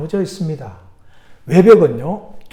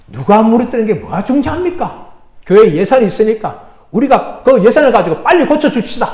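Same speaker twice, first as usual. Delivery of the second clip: emphatic, louder urging at the end; brisk dismissal; 3 semitones higher, 6 dB louder than usual. Acted. Elder urges the pastor to just get repairs done, emphatic. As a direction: brush it aside, then loudly push for action.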